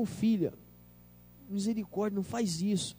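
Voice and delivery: a parent quietly hushing, mortified; hushed embarrassed scolding. Retold or imitated. Parent hushing her child in public, softly embarrassed.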